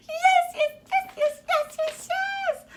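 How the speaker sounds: excited squeal of yes; gleeful yeses. Acted. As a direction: bounce with joy. Phoebe celebrating after the call.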